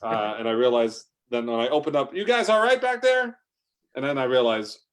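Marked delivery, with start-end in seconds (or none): 2.1-3.4 higher, louder call to the back. Retold or imitated. Trucker checks on chocolate people in back, calling out. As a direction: shout over your shoulder to the cargo.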